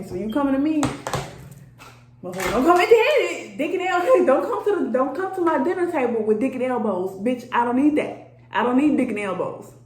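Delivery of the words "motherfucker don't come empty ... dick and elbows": laughing scold. Real, not acted. Scolding suitors while laughing.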